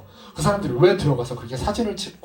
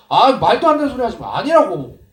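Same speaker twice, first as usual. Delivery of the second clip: louder, brushing-off denial; flustered denial; 7 semitones higher, 7 dB louder than usual. Retold or imitated. Peter denying he knows Jesus, loud flustered denial. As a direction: deny it hotly.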